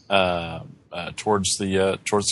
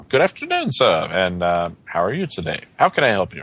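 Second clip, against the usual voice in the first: lightly acted cheery detective greeting; polite greeting with a smile in it; smiling. Detective greets an approaching passenger, mildly cheery. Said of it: "he's got a smile on his face".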